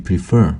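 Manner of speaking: prefer with the weight on its second syllable, pre-FER; stress on fer. Shown as a demonstration. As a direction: lean into the fer of prefer, keep pre light. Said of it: "prefer의 강세는 for에 있습니다".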